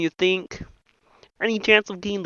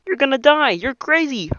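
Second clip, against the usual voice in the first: panicked yelling; 5 semitones higher than usual. Acted. Panicked warning to son.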